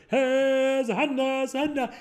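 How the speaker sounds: high, ringing mock-African chant; imitated African accent. Imitating his friend on the car PA, mock-African accent chant. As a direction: call it out high and drawn-out in a put-on African accent. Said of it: "and he was like".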